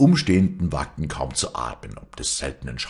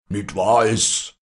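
slow, loud, higher bellow; shouted denial; 5 semitones higher, 6 dB louder, slower than usual. A narrator's reading. Old champion denies he was ever beaten, shouting. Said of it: "schrie Strominger".

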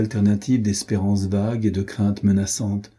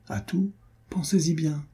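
insinuating baron; 8 semitones higher, 4 dB quieter than usual. A narrator's reading. Baron presses her, insinuating.

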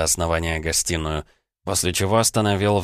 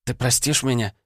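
put-on higher, hesitant young woman; unsure girl's voice; 6 semitones higher than usual. A narrator's reading. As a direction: ask it timidly as Vanda. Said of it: "спросила неуверенно Ванда".

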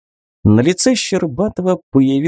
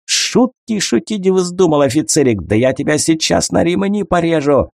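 a captor sneering at his bound prisoner, hateful; hateful threat; 7 semitones higher than usual. A narrator's reading. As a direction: spit the threat out with hatred. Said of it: "с ненавистью посмотрел".

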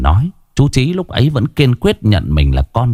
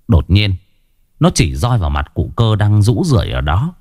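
plain reading voice

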